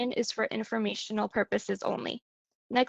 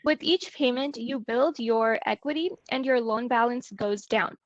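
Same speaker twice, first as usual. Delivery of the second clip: choppy, dropping internet audio; corrupted glitchy audio. Real, not acted. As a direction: sound cutting in and out. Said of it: "your sound keeps cutting out".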